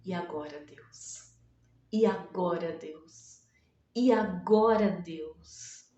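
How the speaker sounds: pergunta baixa e desesperada, quase sussurrada; desamparada. Pretend. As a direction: murmure o desamparo da viúva. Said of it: "ela poderia tá assim". (viúva desamparada pergunta a Deus, murmurando)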